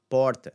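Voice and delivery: "porta" as "PAWR-ta"; open O. Shown as a demonstration. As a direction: hit the open aw in "porta" loudly. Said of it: "Again, the aw sound".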